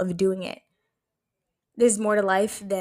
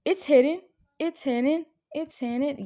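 excited; 7 semitones higher, 3 dB louder than usual. Retold or imitated. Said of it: "I was like".

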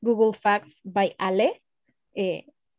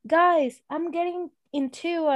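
higher-pitched mock driver on the radio; keyed-up retold radio message; excited radio call; 8 semitones higher, slower than usual. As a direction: lightly imitate an excited driver in English. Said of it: "en el radio les decía".

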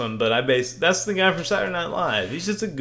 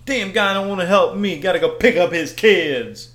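indignant customer; 4 semitones higher, 7 dB louder than usual. Acted. Customer complaining about alarm.

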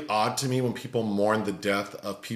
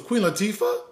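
higher, louder list of names, mock sobbing; tearful diva roll call; 6 semitones higher, 4 dB louder than usual. Retelling the crying woman in the video, mock wailing list. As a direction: wail out each diva's name in hammed-up grief. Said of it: "She's naming all the black divas".

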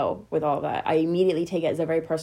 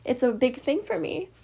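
fighting back tears as she speaks; getting emotional; 7 semitones higher than usual. Real, not acted. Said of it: "I'm gonna get really emotional".

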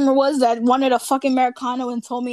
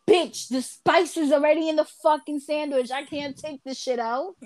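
wished-for retort; 4 semitones higher than usual. Pretend. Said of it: "I always wanted to say".

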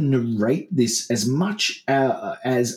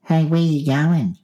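higher-pitched mock driver hailing someone; imagined driver's question; 4 semitones higher, 3 dB louder than usual. Driver asking hitchhiker his destination, higher acted voice. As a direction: hail a stranger, pitched up. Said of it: "She didn't say".

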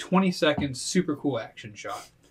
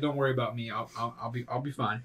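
fading reassurance; 4 semitones lower, 8 dB quieter, faster than usual. Acted. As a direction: call it back from the water, faint. GM voices splashing NPC.

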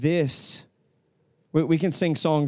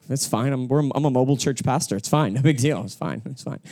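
fake fine. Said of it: "This is terrible".

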